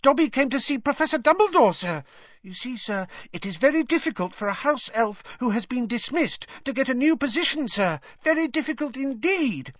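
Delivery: high, squeaky house-elf voice; Dobby. A narrator's reading. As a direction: chatter eagerly as a squeaky little elf. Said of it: "said Dobby happily".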